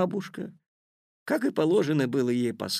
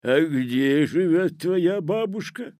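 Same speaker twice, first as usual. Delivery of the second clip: raised, louder wolf character voice; inquiring Wolf; 6 semitones higher, 5 dB louder than usual. A narrator's reading. Wolf asking the girl about grandmother, curious put-on voice. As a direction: inquire with put-on wolfish interest. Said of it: "поинтересовался Волк".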